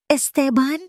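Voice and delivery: high, startled call of his name; jolted awake and frightened; startled cry. A narrator's reading. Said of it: "sigaw niya habang hinihila ang kumot". (gulat na sigaw)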